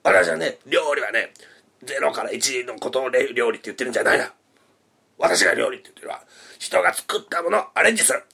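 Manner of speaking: a hint of a forceful old politician; lightly voiced commanding stump speech; Tanaka Kakuei speech. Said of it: "田中角栄が演説するときこんな感じですよ".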